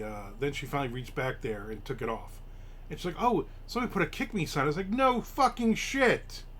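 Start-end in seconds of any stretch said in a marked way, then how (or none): 3.2-4.6 put-on girlfriend's discovery. Girlfriend voiced, discovering sign. 4.9-6.4 sarcastic reply. Retold or imitated.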